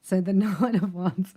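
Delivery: real laughter breaking into speech; amused, laughing as you go. Real, not acted. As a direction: talk through a rising laugh. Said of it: "I don't know why I'm laughing".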